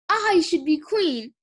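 slow, high-pitched "I should be queen"; dramatic claim. Pretend. Glory claims the throne in play, dramatic declaration. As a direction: declare it grandly, drawing out the words.

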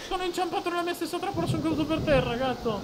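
comic dismay. Real, not acted. Caduto nella propria trappola.

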